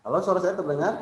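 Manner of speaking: choppy, breaking-up audio; glitchy robotic call. Real, not acted. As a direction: voice cutting in and out over a bad line. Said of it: "Putus-putus".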